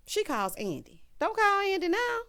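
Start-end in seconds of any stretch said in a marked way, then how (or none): 1.2-2.2 high, loud, squealed protest; mock plea. Viewer begging Karen on screen, high mock wail.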